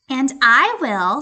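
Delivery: loud, slow eager "I will"; eager cat. Acted. Cat to hen, loud eager yes. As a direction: stretch it eagerly.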